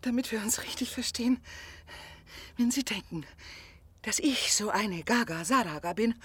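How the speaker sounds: eindringlich und lauter werbend; leidenschaftliche Organisatorin. Acted. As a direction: die Frau schwört Treue und lockt ihn. Organisatorin macht leidenschaftliches Angebot. (leicht gespielte, drängende Verführerin)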